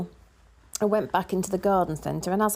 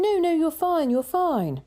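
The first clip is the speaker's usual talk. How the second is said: higher-pitched, insistent reassurance; retold reassurance; 7 semitones higher than usual. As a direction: imitate a cashier brushing off an apology, pitched up. Retold cashier reassuring after an apology.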